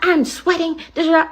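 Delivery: mock her whining; mimicking the passenger. Driver imitating a sweating passenger, mock whiny. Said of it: "She's like".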